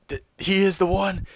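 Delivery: hammed-up terror, loudest at end; panicked. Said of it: "and says".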